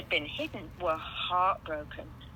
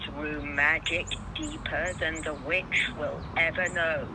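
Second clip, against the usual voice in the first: 1 lion's voice; 4 semitones lower than usual. Acted. Aslan voiced in story.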